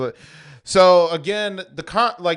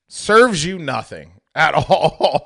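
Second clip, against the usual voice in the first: laughing retort; 3 semitones higher, 7 dB louder, slower than usual. Retold or imitated. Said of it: "And I was just like".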